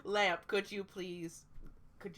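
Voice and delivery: talking through chili burn; mouth burning from chili. Real, not acted. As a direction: mouth on fire, strained. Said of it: "I ate a jalapeno, and my mouth".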